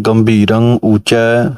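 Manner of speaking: slow, with a rest after ਉੱਚੈ; pause after ਉੱਚੈ. Shown as a demonstration. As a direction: stop briefly after ਉੱਚੈ. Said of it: "ਉੱਚੈ ਦੇ ਅੱਗੇ ਵਿਸਰਾਮ ਹੈ". (ਉੱਚੈ ਤੋਂ ਬਾਅਦ ਵਿਸਰਾਮ)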